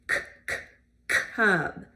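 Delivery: "cub" with k from the throat; throaty K. Shown as a demonstration. Teacher modelling the throaty sound. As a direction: start "cub" at the back of the throat. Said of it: "That's a throaty sound".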